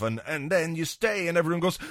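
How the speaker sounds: normal talking voice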